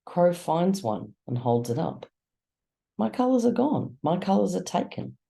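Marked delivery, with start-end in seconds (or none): 3.0-5.2 frightened. Acted. Crow frightened, losing grey.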